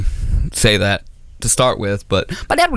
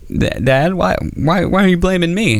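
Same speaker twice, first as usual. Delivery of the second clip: put-on high, stammering child's protest; mock-hurt little boy; protesting young son; 7 semitones higher than usual. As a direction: whine it upward as a wronged kid. Son protesting dad's blame.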